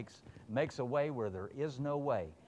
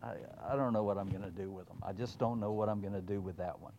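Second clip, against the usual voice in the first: quiet, fast, a hint of a head-shaking Lord; exasperated Lord; 4 semitones lower, 4 dB quieter, faster than usual. The Lord shaking his head over a wayward child. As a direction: mutter it in weary disbelief. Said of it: "be like".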